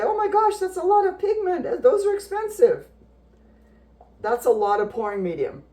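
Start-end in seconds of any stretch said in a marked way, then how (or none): 0.0-2.9 high squeaky mock-shocked voice; shocked onlooker voice. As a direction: play the horrified bystander, way up high. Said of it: "And people say".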